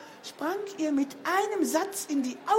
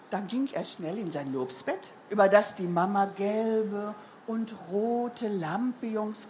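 put-on lively storytelling for children; story narration. A narrator's reading. Reader tells children of the birthday party, lively narration. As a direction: narrate it with playful, swinging emphasis.

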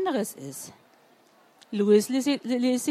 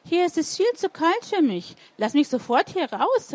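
higher, urgent complaint about the cold; cold and protesting; 6 semitones higher, 3 dB louder than usual. A narrator's reading. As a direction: call out as if freezing. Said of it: "rief sie wirbelnd vor Kälte". (vor Kälte jammernd rufen)

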